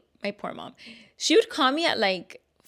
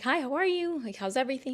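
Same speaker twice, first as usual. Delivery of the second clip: much higher, chirpy hello; cheerful hi, pitched up high; bright greeting; 6 semitones higher, faster than usual. Retold or imitated. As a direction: greet him sweetly and eagerly.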